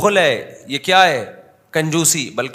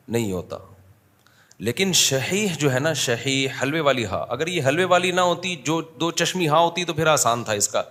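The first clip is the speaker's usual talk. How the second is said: ordinary talk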